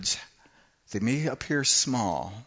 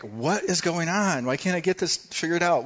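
mock frustrated outburst; 5 semitones higher than usual. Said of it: "I take all the shims out, like".

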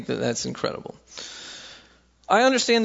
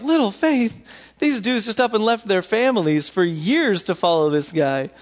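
incredulous; 5 semitones higher than usual. Retold or imitated. Incredulous reply to Jesus' words.

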